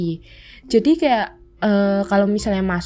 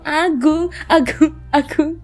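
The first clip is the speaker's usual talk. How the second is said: shy calling; 6 semitones higher, much slower than usual. Retold or imitated. Shy little girl calling crush.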